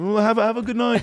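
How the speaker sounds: very high mock-British farewell; imitating a singer. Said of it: "he goes".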